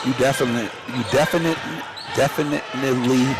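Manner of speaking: talking with food in mouth; words through a mouthful; mouth full. Real, not acted. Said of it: "sometimes I have something in my mouth there".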